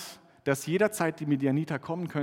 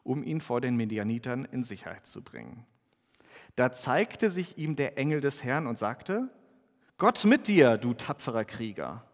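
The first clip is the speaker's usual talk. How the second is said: measured Bible reading with lightly acted voices; scripture reading. Pastor reads Gideon's story aloud to the congregation, measured reading. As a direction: read the passage to the congregation.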